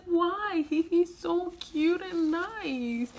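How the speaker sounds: retold heartbroken protest; sad pleading. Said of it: "I felt so sad".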